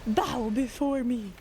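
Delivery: slow, grandiose villain voice; megalomaniac rant. Pretend. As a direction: intone it like a gloating overlord. Reads boss lines while playing.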